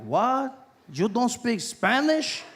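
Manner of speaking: incredulous Latino guy. Retold or imitated. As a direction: question it slowly in shocked Latino English. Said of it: "Guy was like".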